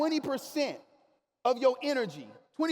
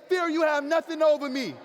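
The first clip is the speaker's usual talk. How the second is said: louder, forceful declaration; rallying the crowd to defy fear, louder; said like you mean it; 5 semitones higher, 5 dB louder than usual. Shown as a demonstration. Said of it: "Say it again like you mean it".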